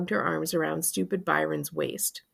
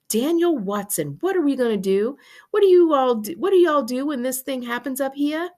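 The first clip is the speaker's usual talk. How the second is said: high, loud Southern fretting; Southern mama in a flap; worried Southern; 8 semitones higher, 6 dB louder than usual. A narrator's reading. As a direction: demand answers in a worried Southern accent. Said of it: "Mama started talking Southern style".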